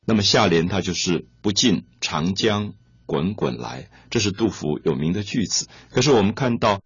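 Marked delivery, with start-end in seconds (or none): 1.4-3.9 slow poem recitation. Shown as a demonstration. Teacher recites the matching couplet line.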